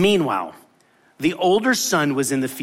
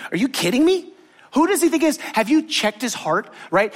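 outraged disbelief; 8 semitones higher than usual. Retold or imitated. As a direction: blurt it out, offended. Voicing the older brother's outrage.

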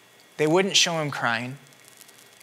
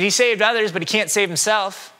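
higher, louder scornful taunt; mocking; 5 semitones higher, 3 dB louder than usual. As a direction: scoff like the priests. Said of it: "they mocked him too".

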